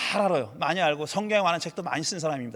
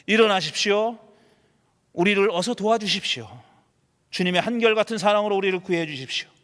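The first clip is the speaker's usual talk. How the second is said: earnest prayerful reading of a lament; scripture read as a fervent prayer; pleading psalm reading. Acted. Reads Psalm 44 lament aloud.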